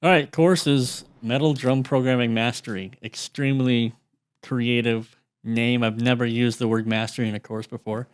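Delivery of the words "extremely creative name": slow, deadpan sarcastic drawl; dry sarcasm. Acted. Mocking his own course title to his friend, dry sarcasm. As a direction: say it with mock pride, slowly. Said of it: "sarcasm aside".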